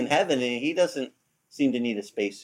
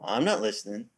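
mock stubborn, higher and light; stubborn refusal; 7 semitones higher, 4 dB quieter than usual. People ignoring the Lord's call, mock stubborn and higher. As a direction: brush him off like a sulky kid. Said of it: "we're going".

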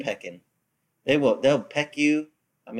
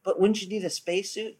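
doubting listener; 6 semitones higher, 3 dB quieter than usual. Retold or imitated. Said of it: "So you're like".

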